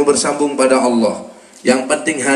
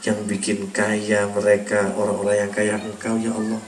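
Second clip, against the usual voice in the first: tearful prayer; 4 semitones lower, 6 dB quieter than usual. Pretend. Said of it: "teteskan air mata".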